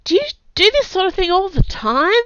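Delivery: out of breath from the fight; breathless, panting question. A narrator's reading. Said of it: "Kai panted".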